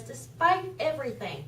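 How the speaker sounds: ordinary talk, nothing marked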